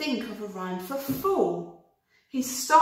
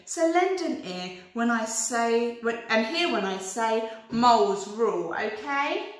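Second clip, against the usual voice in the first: rhyming rabbit reciting; 2 semitones higher than usual. Acted. Rabbit reciting a poem to the worm, sing-song. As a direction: recite it like a proud little poet.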